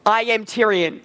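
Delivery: measured character declaration; Tyrion. Shown as a demonstration. Coach models Tyrion's line for student, in character. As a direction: state who you are, firmly. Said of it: "keep the Tyrion voice".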